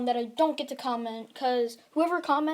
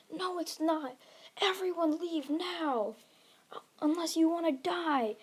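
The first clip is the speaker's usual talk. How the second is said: restrained, higher-pitched urgent warning; mock scream; 6 semitones higher than usual. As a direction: act out a scream without real volume. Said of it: "And Deku screams".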